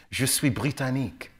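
lightly voiced French accent. Traveller in France names himself in a light French accent. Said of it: "when I go to France".

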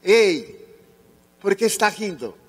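loud, high challenge called across a line; retold shout. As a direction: call out sharply from afar. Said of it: "ele gritou de lá".

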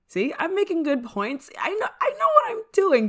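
exasperated self-defence; defensive protest. Acted. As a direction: insist over their doubts, voice shooting up. Defending herself to doubting friend.

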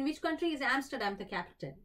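drawn-out quizmaster reading; slow, deliberate game-show question; slow quiz question read. Acted. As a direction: read the question slowly and clearly. Quiz host reads question aloud.

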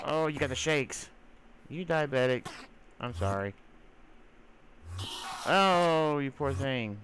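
high, loud mock baby talk to a monster; hammed-up pity for the poor creature; cooing at a pet. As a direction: coo at it like a fussing pet. Baby-talking to an angry Enderman.

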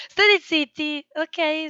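loud, high shout of shut up; shouted hush. Real, not acted. Streamer yelling at noisy people off-mic to shut up.

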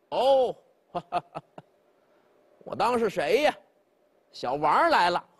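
lightly voiced tipsy old man, amused; a hint of an old drinker chuckling at a visitor; old drunk man. 醉老头儿招呼王德. (微醺老人，带笑)

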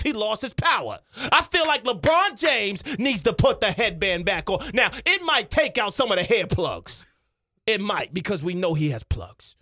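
emphatic pundit argument; Stephen A Smith. Acted. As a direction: argue it like a sports-show sermon. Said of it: "Stephen A Smith".

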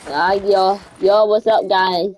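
imitating old voice. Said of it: "I used to talk like".

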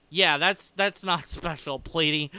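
dry mocking denial, laughing; sarcastic. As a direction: say it with a smirk, clearly not meaning it. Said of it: "that was sarcasm".

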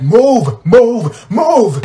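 loud, high mock holler; retold impatient call. Retelling pushing through a crowded hallway, impatient holler. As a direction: bellow each word as a separate order. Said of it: "I'm just like".

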